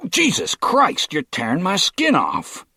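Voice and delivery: high, loud yelp of pain; cry of pain. A narrator's reading. Captive yelping as tape is ripped from his face.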